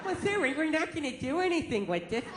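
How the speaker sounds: lightly voiced chirpy cashier asking; a hint of a polite store clerk.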